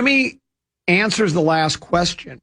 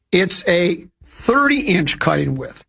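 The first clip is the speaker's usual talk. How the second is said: ad read; much slower than usual. Acted. Ad read of mower endorsement.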